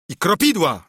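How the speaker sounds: lightly voiced eager comrade; animated Baptist. A narrator's reading.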